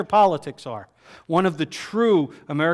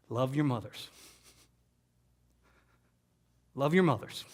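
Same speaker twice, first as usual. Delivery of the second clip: soft, earnest plea; sincere plea; 2 semitones lower, 5 dB quieter than usual. Real, not acted. Teller urging young listeners to love their mothers, sincere. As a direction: urge them gently from the heart. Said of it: "I gotta tell you".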